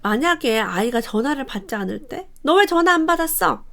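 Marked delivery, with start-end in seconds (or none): 2.4-3.6 sharp, higher scolding demand. Shown as a demonstration. Mother scolding her child for not answering, demanding. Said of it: "이렇게 다그치는 말로".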